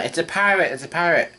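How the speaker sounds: mock freak-out. Townspeople spot a pirate at the palace, mock freak-out. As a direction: mildly act out a panicked crowd. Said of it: "people are freaking out".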